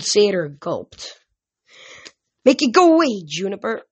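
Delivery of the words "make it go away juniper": high, loud panicky squeal fading off; frightened plea. A narrator's reading. The old satyr begging Juniper to get rid of the hellhound, panicky. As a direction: beg to be rescued from the dog.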